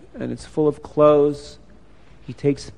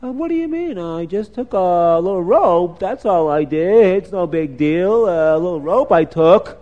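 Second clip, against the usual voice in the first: lightly voiced boy playing it down; defensive little boy. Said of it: "The little boy says".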